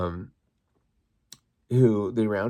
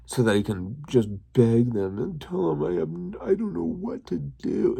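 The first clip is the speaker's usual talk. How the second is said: mocking fake crying. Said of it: "And just so fake".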